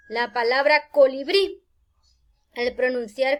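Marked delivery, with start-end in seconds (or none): 0.9-1.6 "colibrí" with BRÍ raised and punched; stress on last syllable. Shown as a demonstration. Teacher presenting the next example word, stress on last syllable. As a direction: lift and lean on the final BRÍ of "colibrí". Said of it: "la fuerza cae en la sílaba brí".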